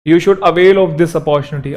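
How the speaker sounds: slow, deliberate reading of the example; slow dictation. Shown as a demonstration. Teacher slowly reading a sentence to the class. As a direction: read it out word by word. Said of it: "avail बहुत important word है ये".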